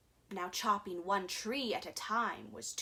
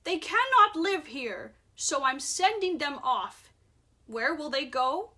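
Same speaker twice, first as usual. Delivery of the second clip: raised voice; 4 semitones higher, 5 dB louder than usual. Acted. Lorax sends creatures away.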